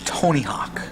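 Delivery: dramatic hushed reveal; whisper. Acted. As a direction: breathe the name in awe.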